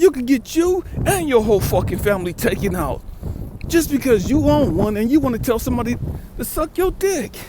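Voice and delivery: heated lecture. Retold or imitated. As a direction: lay into him, building heat. Lecturing the disrespectful young man.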